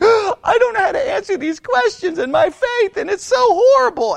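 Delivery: high, loud, tearful wail; hammed-up helpless whine, almost crying; mock whining. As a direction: mimic her as an overwrought whiner. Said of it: "feels like she's whining".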